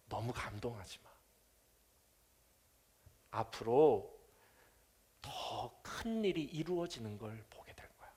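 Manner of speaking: tender, fading to a near whisper; gentle rebuke. Acted. 예수님이 나다나엘을 타이르듯 부드럽고 조용하게. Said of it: "부드럽게 꾸짖으시는 거예요".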